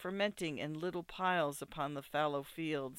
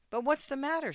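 higher-pitched, animated asking; puzzled question; 9 semitones higher, 4 dB louder, faster than usual. A narrator's reading. Bride asks her trembling groom, puzzled. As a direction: ask it high, with sudden concern.

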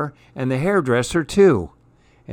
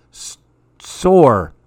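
put-on crying baby; 7 dB louder than usual. A narrator's reading. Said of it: "The baby cried".

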